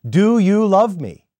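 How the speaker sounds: the third searching asking to Peter; grieved third asking. Retold or imitated. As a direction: lean hard on the question, slowly. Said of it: "Jesus asked him for a third time".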